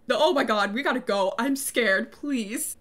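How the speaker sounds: mildly frightened plea; a touch of panic, trailing off on "please"; mock freaked-out. Fiancée begging to leave the shack, mock scared. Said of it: "super freaked out now".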